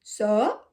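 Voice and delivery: "so" as a short burst gliding up; trying to pop the O. Shown as a demonstration. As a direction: try popping the O in "so", lifting the end. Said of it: "Is that how you pop an O?".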